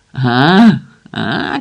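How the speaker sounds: frenzied yelling; crazed yell. A narrator's reading. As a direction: cry out wildly, first one loudest. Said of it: "кричав".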